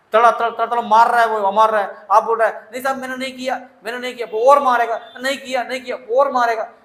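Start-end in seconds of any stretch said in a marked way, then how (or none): 2.7-4.3 pleading denial. Acted. Accused pleading while police beat him. 5.2-6.0 pleading denial. Acted. Accused pleading while beaten.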